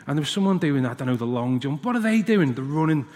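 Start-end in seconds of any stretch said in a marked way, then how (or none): 1.8-2.5 lightly voiced curious little boy; a hint of a small child asking dad; curious boy, lightly done.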